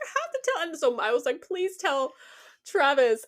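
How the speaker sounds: high-pitched retold plea; pleading. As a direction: beg as if bursting with a secret. Retells begging to share the secret.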